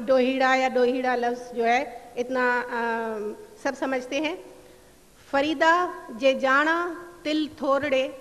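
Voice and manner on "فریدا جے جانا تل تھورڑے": slow, measured reading of Sufi verse; verse recitation. Acted. Lecturer reciting Baba Farid's couplet to the audience, slow and measured. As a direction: recite the couplet slowly, savouring each line. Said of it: "بابا فرید کے دو اشعار ... پیش کرتی ہوں".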